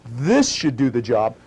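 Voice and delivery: slow it down and lay it out. Shown as a demonstration.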